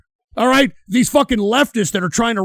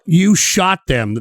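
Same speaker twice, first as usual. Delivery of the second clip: slow, pointed "You shot them." with weight on "You"; pointed repeat; slower than usual. Retold or imitated. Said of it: "Very interesting word".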